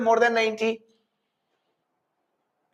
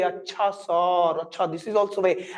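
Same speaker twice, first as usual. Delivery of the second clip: put-on kids' voice, slow; 3 semitones lower than usual. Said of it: "Then they say".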